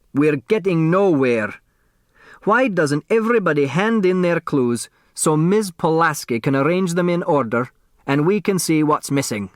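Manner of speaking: hoarse voice. Acted. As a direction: croak it out after coughing. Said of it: "spoke in a hoarse voice".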